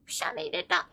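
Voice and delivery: soft breathy whisper. Real, not acted. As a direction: whisper it after a sneeze. Right after a sneeze.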